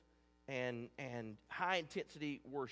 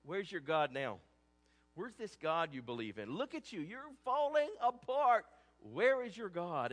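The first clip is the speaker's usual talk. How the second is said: mocking taunt; 2 semitones higher, 4 dB louder than usual. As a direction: taunt him like a jeering enemy. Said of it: "they taunt him, and they mock him".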